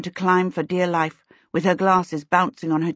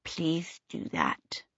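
polite; 11 dB quieter, much slower than usual. A narrator's reading. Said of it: "Twinkle said politely".

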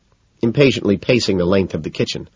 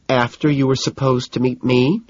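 higher, questioning; lightly voiced higher woman's part; upset girlfriend; 5 semitones higher than usual. A narrator's reading. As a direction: ask it pointedly, pitched up. Narrator voices Jeanette.

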